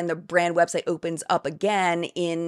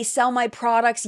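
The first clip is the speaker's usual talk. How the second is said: sarcastic mockery; 4 semitones higher than usual. Sarcastic mock of MLM pitch.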